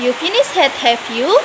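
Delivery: "have you" lifts at the end, suspicious; rising tag intonation. Shown as a demonstration. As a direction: let "you" rise questioningly. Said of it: "intonasinya meninggi yang disebut sebagai rising intonation".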